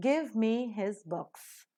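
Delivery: "Give" and "books" stressed, "me his" weak and quick; slow model line leaning on "Give" and "books". Shown as a demonstration. Teacher models the sentence, stressing "Give" and "books". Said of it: "Give being a verb is accented".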